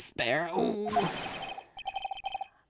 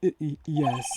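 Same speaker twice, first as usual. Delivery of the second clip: stuttering, higher and louder; nervous stammer; 6 semitones higher, 5 dB louder than usual. Acted. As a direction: trip over the words nervously.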